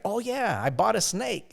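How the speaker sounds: high, casual, clueless answer; innocent reply. Retold or imitated. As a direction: play it innocent and carefree. Son answers mom casually.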